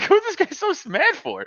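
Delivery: high, giggly disbelief; laughing uncontrollably. Retold or imitated. Laughing at the husband's sudden anger, helplessly amused. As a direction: squeal it through retold laughter. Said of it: "start laughing uncontrollably".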